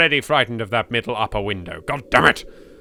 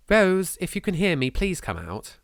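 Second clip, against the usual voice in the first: calling out; 9 semitones higher than usual. Acted. Calling through the mansion.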